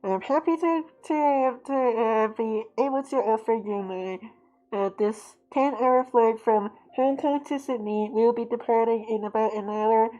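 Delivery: a hint of an airline captain over the intercom; lightly voiced pilot greeting passengers before departure. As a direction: announce like a calm captain. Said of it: "airplane captains always speak like this".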